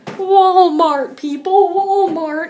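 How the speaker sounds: excited. Pretend. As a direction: cheer the name like an ad pitch. Cousins chanting the store name.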